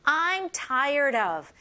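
slow, stretched repeat of the phrase; slow it right down for students; slow model phrase. Shown as a demonstration. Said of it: "All right".

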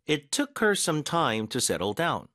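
very slow, clear reading; slow model sentence. Shown as a demonstration. Teacher playing a listening example slowly. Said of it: "이거 한번 들어보세요".

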